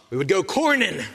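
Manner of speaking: corning said in a light Pittsburgh accent, a local twang. Shown as a demonstration. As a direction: give corning a hint of Pittsburgh. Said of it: "You gotta say it with a P-, Pittsburgh accent".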